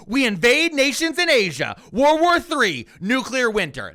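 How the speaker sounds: high, loud doom-mongering mock voice; shitty voice. Host mocking Stephen Miller's warning in a shitty voice. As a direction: hype it like a cheesy fearmonger. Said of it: "I'm gonna do it in a shitty voice".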